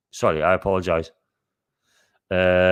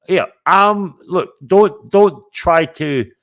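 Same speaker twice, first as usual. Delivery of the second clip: mock warning; 10 semitones higher, 6 dB louder, slower than usual. Real, not acted. Warning rival Scottish streamers.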